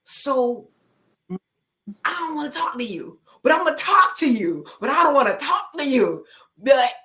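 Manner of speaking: high, loud, tearful, fast protest; tearful outburst. Retold or imitated. Telling God she doesn't want to talk to Him, loud and tearful. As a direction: let the grief crack through the anger.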